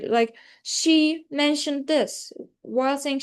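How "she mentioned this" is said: presenter demonstrating focus with a long, stressed She. Shown as a demonstration. Presenter showing classmates focusing function, slow stress on She. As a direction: make She the main word, drawn out slowly. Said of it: "I'm directing "she" because, uh, it is the main topic".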